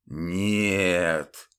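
low, flat refusal of the dead; a hint of a grave-voiced no; implacable rasp. Templar refuses Ludmila flatly in a low voice. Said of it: "непримиримо прохрипел Рено".

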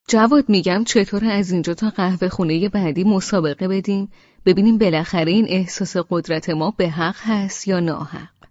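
a bold, spirited invitation to race to the teahouse; eager challenge. Acted. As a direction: throw down a cheerful challenge.

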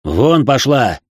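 sharp loud order. Acted. Grandfather throwing out the mother, sharp and loud. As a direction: throw her out with one sharp command. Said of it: "сказал резко".

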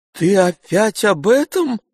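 be shocked he's raising it again; astonished. A narrator's reading. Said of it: "с изумлением спросил".

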